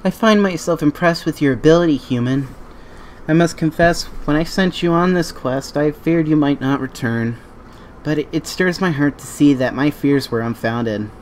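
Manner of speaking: formal, gracious questgiver; wise NPC voice. Acted. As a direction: read it like a noble elder. Reads NPC dialogue aloud.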